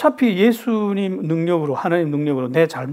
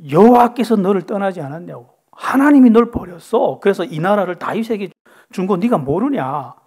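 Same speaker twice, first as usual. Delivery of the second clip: rebuking spirit. Acted. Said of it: "호통을 쳐요".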